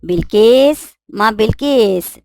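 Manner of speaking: calling loudly across the house, slow. Acted. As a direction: call her name from the next room. Mother calls maid from afar. (দূর থেকে জোরে নাম ধরে ডাকা)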